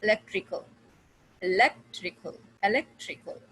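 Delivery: "electrical" with LEC leaned on; third-last syllable stressed. Shown as a demonstration. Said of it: "stress on the third from the last".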